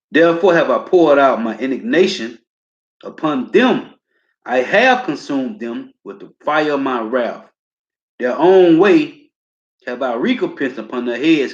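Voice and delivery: slow, forceful proclamation; slow preacher's reading; scripture reading. Acted. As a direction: declaim the wrath verse with weight. Preacher reads scripture aloud.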